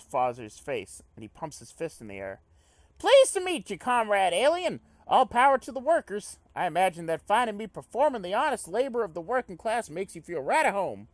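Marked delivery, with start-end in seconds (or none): 3.0-11.1 high, loud, hearty worker's greeting; jubilant comrade character. Acted. Comrade welcomes alien to the workers, jubilant high voice. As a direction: proclaim it proudly in a high voice.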